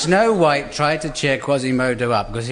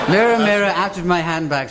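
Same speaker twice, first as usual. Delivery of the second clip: mock incantation; 4 semitones higher than usual. Snow White calls her mirror.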